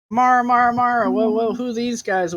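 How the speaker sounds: put-on high eager kid calling; curious child voice. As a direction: call her like an excited kid.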